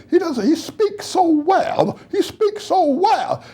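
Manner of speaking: high, slow, gushing mock admiration; mock praise. Mocking patronizing praise of a Black man.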